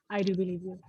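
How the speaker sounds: whispered I do believe you. Shown as a demonstration. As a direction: breathe it as a firm secret. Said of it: "assert करना है".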